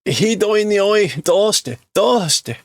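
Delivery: man overwhelmed by the stench, high; character voice. Acted. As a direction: ask why, overwhelmed. Voicing character.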